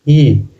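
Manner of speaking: ई held long with extra force; long, stressed vowel ई; drawn-out long ई. Shown as a demonstration. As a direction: push out a long "ee" on ई. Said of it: "थोड़ा सा जोड़ पड़ता है".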